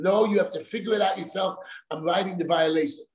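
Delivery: a quick brush-off, rattled through fast; mock the inspector's brush-off; dismissive official. Mocking the inspector waving him off, quick and curt.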